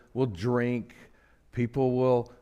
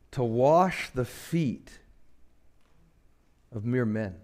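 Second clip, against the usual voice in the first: preaching build; slower than usual. Acted.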